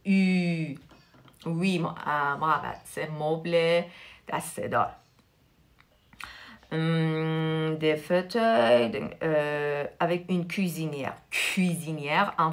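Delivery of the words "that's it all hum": ordinary talk, nothing marked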